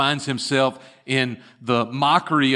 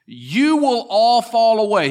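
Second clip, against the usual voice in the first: Jesus' warning; 6 semitones higher, 4 dB louder than usual. Acted. Jesus foretells desertion to disciples.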